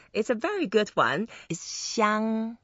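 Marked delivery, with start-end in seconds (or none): 1.6-2.6 xiang held high and level; pronunciation demo. Shown as a demonstration. Teacher introducing the second word, pronunciation demo. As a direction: model xiang on an even, raised tone. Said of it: "And then the second word".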